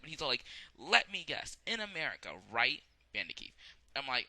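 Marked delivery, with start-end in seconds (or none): 0.8-3.5 higher, louder mock Joey. Joey teasing Keith, higher louder mock voice. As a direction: tease as Joey.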